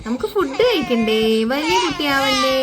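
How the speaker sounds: sing-song persuasion over the crying; coaxing a baby. Pretend. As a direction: coax a crying baby doll to eat.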